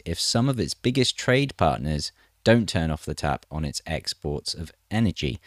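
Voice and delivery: measured news-reading delivery; article read aloud. Acted.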